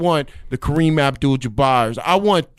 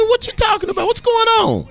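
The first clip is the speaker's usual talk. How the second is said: much higher, excited squeak; voice jumps up. Real, not acted. Guest gets hyped for the weekend, much higher voice. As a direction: let your voice shoot up when hyped. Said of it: "How come your voice goes up like that?".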